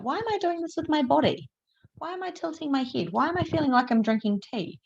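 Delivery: high, puzzled self-questioning; quizzical inner voice. Retold or imitated. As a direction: ask yourself, baffled and lilting. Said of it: "I'll be like".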